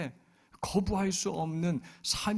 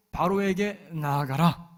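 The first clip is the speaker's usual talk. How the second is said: slow, louder solemn order; God's command; 3 semitones higher, 6 dB louder, slower than usual. Retold or imitated. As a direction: command with divine weight. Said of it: "명령을 하세요". (느리고 엄하게 명령하듯)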